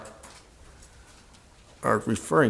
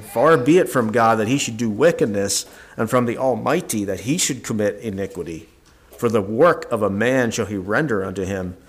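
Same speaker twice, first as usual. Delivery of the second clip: scripture reading. Acted. Reads chapter thirty-four aloud.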